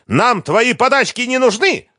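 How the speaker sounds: very high, loud refusal; angry shout. A narrator's reading. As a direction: scream it, pitch way up. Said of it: "снова закричала Лиза".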